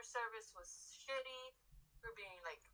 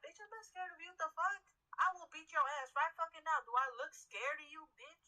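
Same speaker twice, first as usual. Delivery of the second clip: retold angry retort; 4 semitones higher than usual. Worker squaring up to customer.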